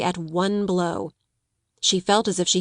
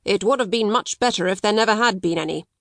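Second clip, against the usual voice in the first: snappishly. Acted. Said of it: "quite snappishly".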